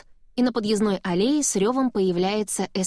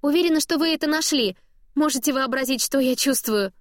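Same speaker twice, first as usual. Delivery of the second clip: higher, bubbly mother owning up; embarrassed mom voice; 6 semitones higher than usual. A narrator's reading. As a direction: chirp it out, half mortified. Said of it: "Её голос вдруг прорывается".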